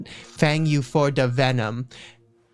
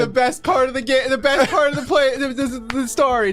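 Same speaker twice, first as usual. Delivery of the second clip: high, delighted gushing; excited praise; 10 semitones higher than usual. Real, not acted. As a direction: rave with delight. Delighted by the joke.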